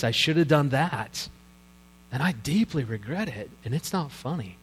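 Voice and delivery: subdued confession, softening as it goes; regretful parent. Acted. Preacher voicing a parent of struggling adult children, quiet regret. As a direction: voice a parent quietly blaming themselves.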